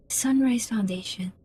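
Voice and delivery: hushed, breathy whisper of the name. Acted. Character murmuring a half-remembered company name, whispered.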